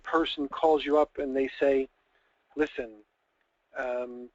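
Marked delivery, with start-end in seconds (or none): 2.6-4.3 dramatic husband. Acted. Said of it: "I'm gonna go a little drama here".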